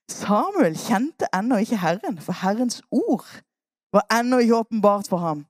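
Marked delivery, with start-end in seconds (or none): none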